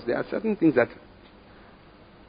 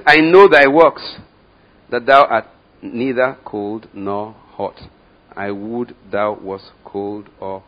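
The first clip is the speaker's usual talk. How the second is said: slow, booming reading of Jesus' words; solemn loud scripture; 9 dB louder, much slower than usual. Acted. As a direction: proclaim it slowly and loudly, like a rebuke. Preacher reads Jesus' rebuke aloud.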